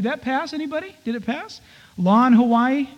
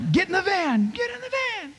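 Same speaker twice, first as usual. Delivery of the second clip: higher, joking sergeant command, fading quieter; mock barked order; 9 semitones higher, 5 dB quieter than usual. Dad joking with his little girls, mock barked order. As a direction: order them into the van like a drill sergeant. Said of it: "and I go".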